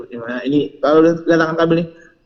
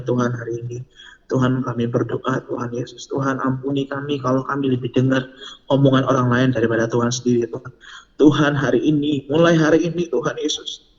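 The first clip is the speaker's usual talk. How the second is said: earnest prayer. Real, not acted. Preacher leading youth in prayer to Jesus, earnest praying. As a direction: pray it aloud, starting hushed, then firmer. Dia mau doa.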